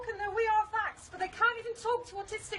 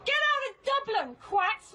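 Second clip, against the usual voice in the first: raised heckle at opponents; heckling; 3 dB louder than usual. Real, not acted. Protester telling visitors to leave Dublin, heckling. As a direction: call out to drive them away.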